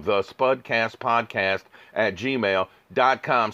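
slow, spaced-out dictation; slow repeat. Real, not acted. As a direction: repeat it slowly so listeners catch the address. Repeats email address for listeners.

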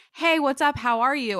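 casual greeting. Retold or imitated. Relative texting just to say hi, casual greeting. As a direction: toss off a friendly check-in.

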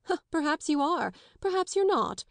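lightly mock her doubt. A narrator's reading. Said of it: "with a mocking laugh".

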